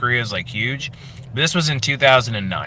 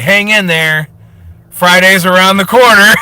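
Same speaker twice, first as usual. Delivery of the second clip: higher, louder, bright sing-song caption read; cheesy poster caption voice; 7 semitones higher, 8 dB louder than usual. Pretend. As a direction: sell the motivational cat poster line, hammed-up. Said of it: "the caption's gonna say".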